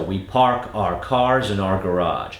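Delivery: slow, with crisp R on cars; crisp R drill. Shown as a demonstration. Coach repeating the drill, crisp Rs, slow. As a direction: lean on cars, keep every R crisp. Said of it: "so important to have a nice crisp R".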